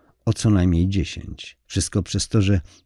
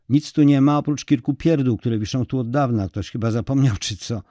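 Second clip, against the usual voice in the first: caretaker; 4 semitones higher than usual. Acted. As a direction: play the dim school caretaker stating the obvious. Caretaker voiced by narrator.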